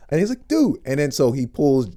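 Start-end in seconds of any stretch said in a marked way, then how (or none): 0.5-0.8 high, loud amazed exclamation; retold astonished outburst; Michael B. Jordan. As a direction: blurt it in high-pitched disbelief. Acts out star's amazement.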